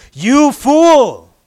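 booming rebuke. Shown as a demonstration. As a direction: cry fool with full urgency. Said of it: "You gotta say it like that".

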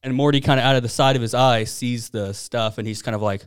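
ordinary delivery

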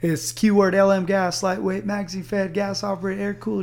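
recruit reciting. Retold or imitated. Recruit reciting answer at attention.

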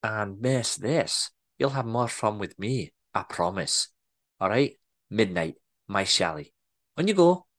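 Scottish boss lures worker to midnight meeting; flirty Scottish accent. Acted. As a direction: tempt him in Scottish. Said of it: "better Scottish accent than I'm portraying".

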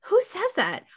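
incredulous laughing rant; exasperated rant. Real, not acted. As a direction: rant in amazed outrage.

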